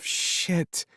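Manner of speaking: breathy whispered swear; whispered curse. Acted. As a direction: hiss it in dismay. Melody realizes allergy.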